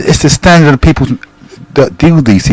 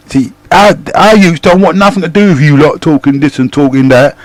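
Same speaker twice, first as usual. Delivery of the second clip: feisty retort; 4 semitones higher than usual. Retold or imitated. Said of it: "I thought, you little in your face, rank and feisty".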